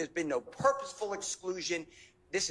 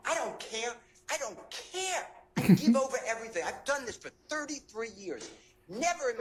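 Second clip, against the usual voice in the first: exasperated outburst; 3 semitones higher, 3 dB louder than usual. Real, not acted. Attorney venting at the judge, exasperated outburst. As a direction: burst out louder and faster on the last line.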